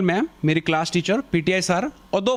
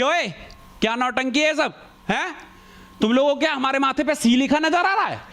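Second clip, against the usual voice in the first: angry teacher; 5 semitones higher than usual. Retold or imitated. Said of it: "PTI गुस्से में आ गया".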